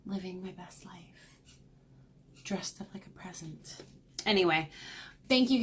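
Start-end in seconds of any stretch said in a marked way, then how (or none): 0.0-3.8 whisper. Acted. Whispered joke aside.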